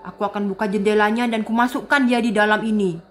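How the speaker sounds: low, scheming mutter of a prowling villain; sneaky villain voice. Acted. Villain sneaking into the house, low and scheming. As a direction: creep around like a villain plotting in the dark.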